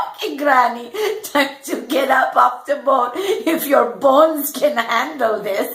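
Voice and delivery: playful singsong tease; teasing sing-song. Retold or imitated. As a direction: tease her gently, half singing. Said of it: "I say".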